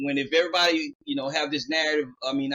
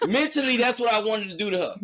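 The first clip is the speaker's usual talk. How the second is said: laughing; 4 semitones higher than usual. Real, not acted. Laughing admitting the fantasy.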